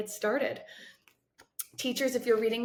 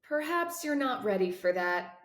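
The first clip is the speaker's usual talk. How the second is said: soothing tone. Acted. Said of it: "in a soothing tone".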